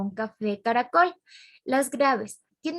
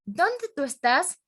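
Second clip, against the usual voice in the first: ¿dónde tú estás? asked slowly, pitch higher; questioning tune; 5 semitones higher, slower than usual. Shown as a demonstration. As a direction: ask it clearly as a question, slow. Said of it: "es una oración interrogativa".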